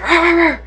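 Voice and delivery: high playful dog growl; imitated dog noise. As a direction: mimic an excited dog.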